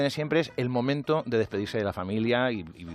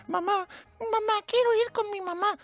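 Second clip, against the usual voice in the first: put-on much higher, a crying child calling for mommy; little girl voice. Mock little girl in the fleeing crowd, much higher and pleading. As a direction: squeak it out like a lost little girl. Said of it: "una niña con un osito".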